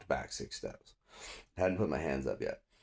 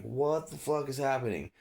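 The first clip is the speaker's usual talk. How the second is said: high-pitched incredulous question; retold shock; 9 semitones higher than usual. Suspect just tackled by cop, retold high-pitched shock. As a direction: act out bewildered protest.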